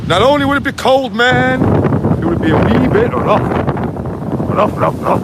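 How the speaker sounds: a light, jokey Scottish voice, fast; daft Scottish accent. Pretend. A vlogger to his viewers at the shore, in a daft Scottish accent. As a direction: ham up a Scots accent while warning about the cold sea. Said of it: "doing daft accents".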